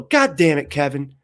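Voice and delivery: hammed-up fed-up teacher; mock exasperated Jesus. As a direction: snap at a dim disciple. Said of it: "Like, you know".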